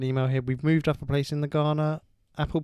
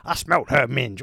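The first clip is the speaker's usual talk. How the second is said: Al Pacino impression; 6 dB louder than usual. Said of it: "Al Pacino here".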